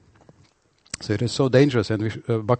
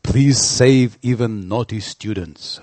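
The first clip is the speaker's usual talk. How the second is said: pleading; 3 semitones higher, 5 dB louder than usual. Acted. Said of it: "And Advaita Acharya says".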